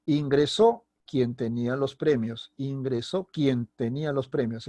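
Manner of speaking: statement with "quien" unaccented and a falling end; plain affirmation. Shown as a demonstration. Teacher demonstrating a statement, unemphatic "quien". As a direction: state it evenly, no questioning lift on "quien". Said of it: "estoy haciendo una afirmación nada más".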